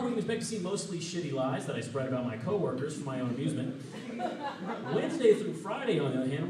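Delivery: mock weatherman forecast, upbeat and measured; newscaster voice. To his boss Greg, a hammed-up newscaster weather report. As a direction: read the week like a cheery TV weather report. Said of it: "I would love to use that voice".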